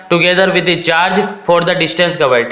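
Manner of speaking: slow, measured reading aloud. Shown as a demonstration. Teacher reads the question before translating it, slowly. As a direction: take the question slowly, phrase by phrase. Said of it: "question को धीरे धीरे read करते हैं".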